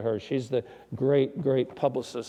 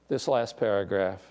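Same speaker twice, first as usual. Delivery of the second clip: ordinary delivery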